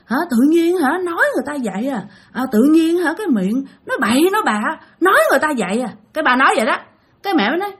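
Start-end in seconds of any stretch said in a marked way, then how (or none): 0.1-5.9 high, sulky grumbling father; grumpy possessed father. Retold or imitated. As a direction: whine it like an offended old man. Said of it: "ba hầm hầm".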